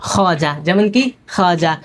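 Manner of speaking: খাজা said slowly, with no w; silent waw. Shown as a demonstration. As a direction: leave the w out of খাজা. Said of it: "ওই ওয়াওটা উচ্চারিত হবে না".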